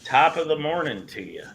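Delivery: put-on Irish lilt, high on the first word; Irish accent. Shown as a demonstration. Showing friends the accent they asked about, Irish accent. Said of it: "Maybe I'll work on my Irish accent".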